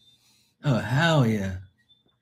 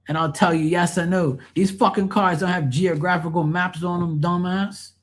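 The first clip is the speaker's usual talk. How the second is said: mock rant; 3 semitones higher than usual. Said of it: "I went like this".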